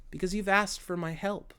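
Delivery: softly acted gentle reply; beautiful, tender answer. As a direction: answer tenderly, dropping the volume. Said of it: "answers in the most beautiful".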